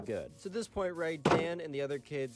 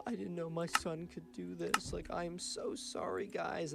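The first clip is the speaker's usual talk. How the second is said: teary; 6 semitones higher, slower than usual. Retold or imitated. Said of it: "she's just in tears".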